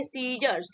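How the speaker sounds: सीजर्स opening on a plain S; silent C. Shown as a demonstration. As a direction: say सीजर्स with no K sound. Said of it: "हम क्या बोलेंगे".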